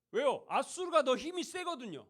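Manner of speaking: emphatic preaching. Real, not acted. Emphatic sermon point.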